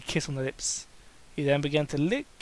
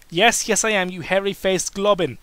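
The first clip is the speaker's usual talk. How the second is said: louder taunting jab with a grin; mocking insult; 3 semitones higher, 6 dB louder than usual. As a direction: tease him like a grinning brute. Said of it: "Kane insulted with a big smile".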